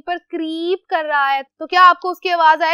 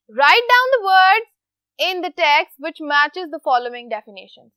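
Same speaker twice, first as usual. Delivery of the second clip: slow read-aloud; 4 dB louder, much slower than usual. Shown as a demonstration. Teacher reads instruction aloud.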